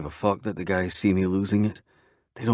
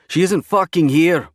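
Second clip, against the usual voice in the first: panicked outburst; 9 semitones higher, 8 dB louder than usual. Acted.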